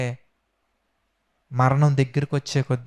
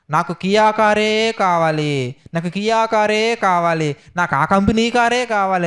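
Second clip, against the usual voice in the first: slow, drawn-out mock pleading for a Kia car; mocking greedy servants; 3 semitones higher than usual. Preacher mocks YouTube servants begging for cars, slow mock plea. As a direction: parody the preachers who beg for a Kia, slowly. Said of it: "కొంతమంది సేవకులు ఈ మధ్యకాలంలో YouTube-లో కనిపించారండి".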